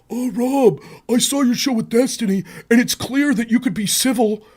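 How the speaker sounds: lightly put-on sweet voice; mocking her DM, lightly voiced; mock impression of her. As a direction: read her message in a mildly mocking tone. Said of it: "she has to message me DMs".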